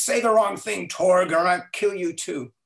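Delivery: angry threat. Retold or imitated. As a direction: act out the angry captain threatening his crewman. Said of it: "And Krug is still angry".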